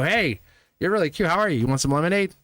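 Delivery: high, forward pickup line; way out there. Retold or imitated. Imitating son's bold approach to someone cute, forward and high. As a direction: chirp an overly direct come-on. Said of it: "You go".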